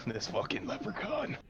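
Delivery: high, soft, acted splutter of amusement; softly squeaked through suppressed mock laughter; spurting into laughter. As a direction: say it as if laughter is bursting out. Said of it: "I just say that as I just laugh, or I spurt out into laughter".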